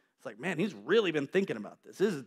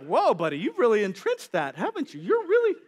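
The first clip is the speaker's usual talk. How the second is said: amused laughing; 4 semitones higher, 4 dB louder than usual. Acted. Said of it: "It's like".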